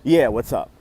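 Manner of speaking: imitating a nonchalant greeting. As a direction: toss it off casually, as if unbothered. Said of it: "just very casually, very nonchalantly goes".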